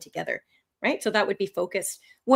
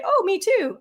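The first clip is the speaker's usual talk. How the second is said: keen agreement; 10 semitones higher than usual. Acted. Acting a keen answer.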